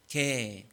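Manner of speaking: "개" said slowly, one low drawn-out syllable; sounding out words. Shown as a demonstration. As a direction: spell out "개" carefully, pitch dropping. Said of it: "한번 자막 보실래요?".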